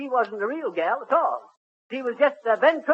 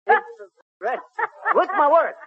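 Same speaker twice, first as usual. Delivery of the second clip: slow correction; 7 semitones higher, 3 dB louder, much slower than usual. Real, not acted. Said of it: "self-correction mid-word".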